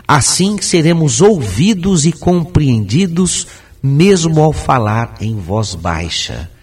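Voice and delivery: slow, deliberate reading with every syllable of "Articular bem as palavras" sounded; careful full articulation. Shown as a demonstration. Speaker demonstrates reading without swallowing syllables, fully articulated from "Articular" onward. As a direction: pronounce every vowel and consonant, unhurried, from "Articular" through "baixa". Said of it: "vou ler tentando não comer nenhuma sílaba".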